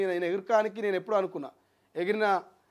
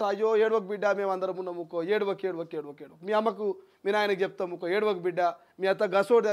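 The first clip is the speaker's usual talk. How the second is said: imitating neighbours hushing a crying girl, softer; a lightly voiced crowd comforting the bride; mock soothing; 3 semitones lower, 4 dB quieter than usual. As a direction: coax her to stop crying, softer and lower. Crowd consoling weeping bride.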